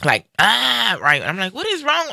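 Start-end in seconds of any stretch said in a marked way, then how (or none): 0.4-1.0 mock holler. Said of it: "he started hollering". 1.5-2.1 sharply higher, startled question; alarmed call. Retold or imitated. Daughter calls out to her father in alarm.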